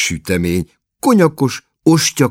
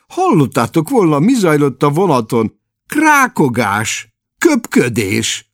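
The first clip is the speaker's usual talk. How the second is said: higher, louder sour complaint; a cross brother ranting; lightly voiced grumpy Larry; 6 semitones higher, 4 dB louder than usual. A narrator's reading. Larry's long irritated rant. (ingerült, panaszkodó Larry)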